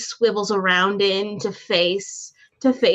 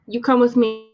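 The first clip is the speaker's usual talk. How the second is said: bad heavy Russian accent; 3 semitones higher than usual. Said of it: "in my bad heavy Russian accent".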